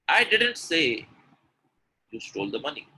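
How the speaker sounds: emphatic denial on "didn't", then pause; stress on didn't. Shown as a demonstration. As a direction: stretch and lift "didn't". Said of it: "The emphasis on, was on it".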